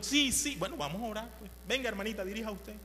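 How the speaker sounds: reluctant pastor. Retold or imitated. Pastor yielding to the old ladies, lightly voiced. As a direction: give in with a sigh of a yes. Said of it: "y lo".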